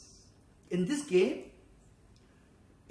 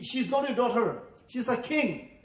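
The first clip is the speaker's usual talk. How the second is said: higher, mildly indignant correction; mock indignant; 3 semitones higher, 3 dB louder than usual. Players correcting Maggie's mother in the game, mildly indignant. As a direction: correct her with mock outrage. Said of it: "everybody becomes so angry".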